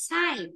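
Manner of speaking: "cycle" slowly, with "sai" at the start, not "sơ"; teacher's careful demo. Shown as a demonstration. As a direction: say the first sound of "cycle" as "ai", slowly and clearly. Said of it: "âm ai?".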